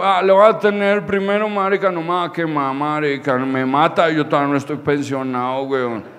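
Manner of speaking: lightly voiced tipsy father; imitating a boozy old man's warning; hint of drunk dad. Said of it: "Parce, el cucho".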